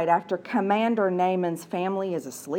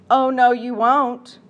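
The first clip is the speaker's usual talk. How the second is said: louder, slow stern mother; big voice; 2 semitones higher, 6 dB louder, slower than usual. Acted. Mother stopping her daughter, loud and slow. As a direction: put your foot down as the mother. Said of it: "said a big voice that was her mother".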